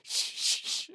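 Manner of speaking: whispered shh; shushing. Retold or imitated. Friend hushing him in a crowded bar, whispering. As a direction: hush him urgently.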